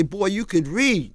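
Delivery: a hint of a tearful father; father near tears. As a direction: let the words come slowly, as if holding back tears. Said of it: "tears is welling up in his eyes".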